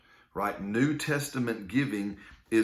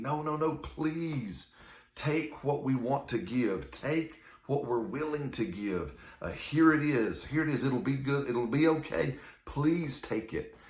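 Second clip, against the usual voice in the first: begging; 3 semitones higher than usual. Retold or imitated. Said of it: "And they were begging".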